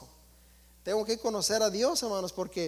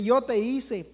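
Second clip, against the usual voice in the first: voicing their God; 4 dB louder than usual. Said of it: "dice el Dios de ellos".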